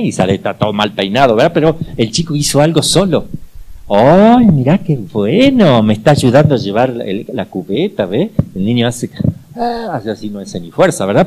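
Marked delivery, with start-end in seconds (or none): 3.9-8.1 praising mother. Retold or imitated. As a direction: thank the little helper like a proud mom. Mother praising helping child.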